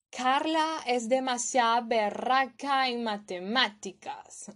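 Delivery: berraca lifted in a Colombian tune; Colombian intonation. Shown as a demonstration. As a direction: give the line a Colombian lilt. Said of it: "Le estoy dando la entonación".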